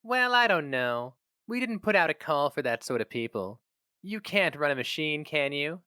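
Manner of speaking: a sober receptionist unsure of him; doubtful receptionist. Acted. Receptionist voiced by narrator.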